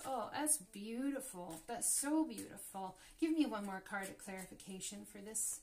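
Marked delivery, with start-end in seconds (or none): none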